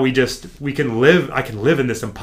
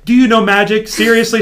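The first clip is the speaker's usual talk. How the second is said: "Do you know magic?" much higher and louder, teasing; mock coach scold; 9 semitones higher, 8 dB louder than usual. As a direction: bark it like an exasperated coach, half joking. Imitating coach teasing a mistake.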